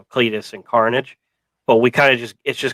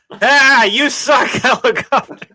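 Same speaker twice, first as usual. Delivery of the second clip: much higher mock scream; imitating Shriek; 12 semitones higher, 3 dB louder, slower than usual. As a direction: screech at the helicopter. Shriek yelling, retold.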